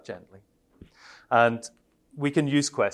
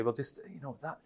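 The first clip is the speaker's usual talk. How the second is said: gentle indirect; 3 semitones higher, 6 dB quieter than usual. Shown as a demonstration. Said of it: "less directly".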